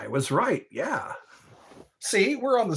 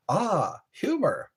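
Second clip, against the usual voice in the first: put-on German accent; 4 semitones higher than usual. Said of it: "with that German accent".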